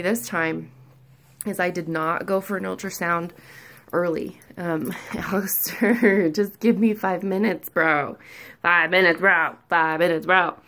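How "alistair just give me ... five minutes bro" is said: laughing, pleading with the dog, louder; half-laughing plea for five minutes. Real, not acted. Mom begging her dog Alistair for five minutes, laughing plea.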